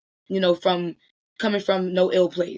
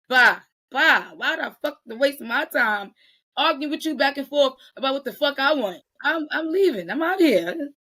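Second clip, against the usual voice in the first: indignant walk-out; 5 semitones higher than usual. Pretend. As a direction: brush them off and storm out of the argument. Acts out walking out of argument.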